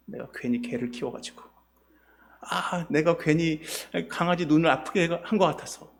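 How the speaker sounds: a tired, softly grumbled gripe; grumbling complaint. Retold or imitated. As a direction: sigh out the complaint under your breath. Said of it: "불평이 생기기 시작합니다".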